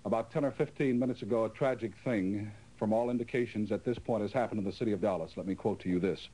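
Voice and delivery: breathless urgent announcement; gasping between phrases, hurried; out of breath. Real, not acted. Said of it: "you'll excuse me if I am out of breath".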